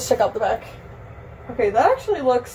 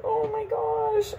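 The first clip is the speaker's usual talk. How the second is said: high laughing wail fading softer; near-tearful laugh; 10 semitones higher, 7 dB quieter, much slower than usual. Real, not acted. Vlogger shocked by the cut hair, tearful laugh. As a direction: laugh on the edge of crying, pitched up.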